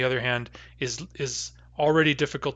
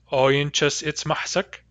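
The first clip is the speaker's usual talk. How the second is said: slow demo pronunciation; slower than usual. Shown as a demonstration. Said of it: "in which case we'd have".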